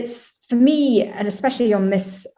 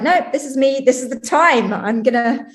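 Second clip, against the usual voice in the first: imitating bold self-belief, pitched up; acted-out empowered resolve; confident declaration; 4 semitones higher than usual. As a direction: speak up as someone seizing their moment. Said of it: "that kind of strength and confidence".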